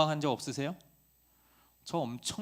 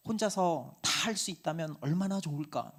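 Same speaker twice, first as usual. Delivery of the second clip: wistful inner wish; 4 semitones higher, 3 dB louder than usual. Retold or imitated. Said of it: "이런 슈퍼맨 같은 꿈을".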